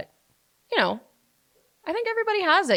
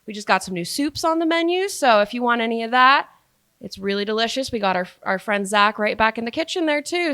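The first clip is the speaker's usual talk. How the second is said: higher, louder server pitch; customer service voice; 3 semitones higher, 5 dB louder than usual. Shown as a demonstration. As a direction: sell the menu to a table, pitched up. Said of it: "it goes up higher".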